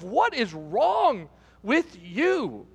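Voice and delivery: slow, drawn-out mock disbelief; mildly hammed-up bafflement; exasperated. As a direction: stretch each word in acted exasperation. Acted exasperated thought at groom.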